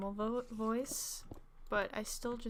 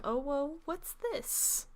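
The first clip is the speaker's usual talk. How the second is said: higher imitation of a Reddit narrator; Reddit video voice; 5 semitones higher, slower than usual. Gamer imitating Reddit videos, put-on higher voice. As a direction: mimic that questioning video voice, pitched up. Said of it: "type of voice".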